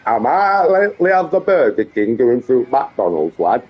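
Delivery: daft, hammed-up Yorkshire; put-on Yorkshire accent. Streamer offering a lad Burger King, put-on Yorkshire accent. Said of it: "this daft Yorkshire accent he goes into".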